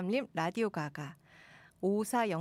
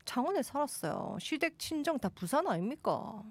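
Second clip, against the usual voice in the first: put-on higher, lilting Gyeongsang accent; Gyeongsang dialect; 5 semitones higher than usual. Host citing Changwon and Busan family, Gyeongsang accent. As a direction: argue your roots in Gyeongsang intonation. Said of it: "경상도 사투리로".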